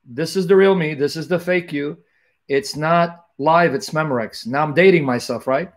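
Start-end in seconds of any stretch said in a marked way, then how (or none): 0.0-2.0 mock talk to fake self. Mock-addressing his fake self. 2.5-4.5 slow, drawn-out ad slogan; a touch of a TV announcer reading the tagline; hammed-up commercial slogan, lightly done; quoting the old ad. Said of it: "remember that, uh, commercial?".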